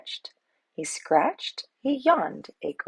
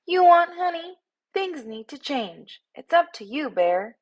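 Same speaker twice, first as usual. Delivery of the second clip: ultimatum from a tiny bee; 8 semitones higher than usual. A narrator's reading. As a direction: push the bear to change.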